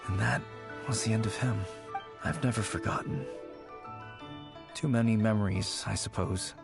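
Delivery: subdued, sorrowful remembrance with long pauses; wistful reminiscing. Acted. Recalling a lost childhood friend, wistful and sad.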